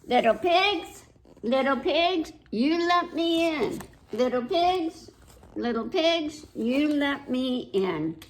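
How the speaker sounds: sing-song wolf calling at the door; big bad wolf. A narrator's reading. Wolf calls to pigs.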